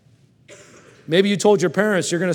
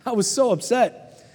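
laughing mock upset; 6 semitones higher than usual. Mock upset over gift.

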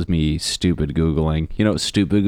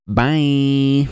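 dismissive doctor; 7 semitones higher, 4 dB louder than usual. Retold or imitated. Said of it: "they're just like".

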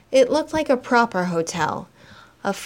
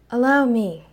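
gently; 4 semitones higher, 4 dB louder than usual. Acted. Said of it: "he said gently".

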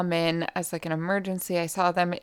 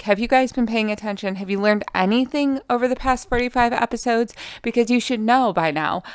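higher-pitched mock exasperation; mock scolding; 5 semitones higher than usual. Real, not acted. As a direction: scold the audience in mock disbelief. Mock-scolding listeners for not remembering.

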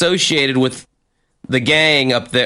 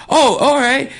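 defiant acceptance; 12 semitones higher than usual. Retold or imitated. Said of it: "he goes".

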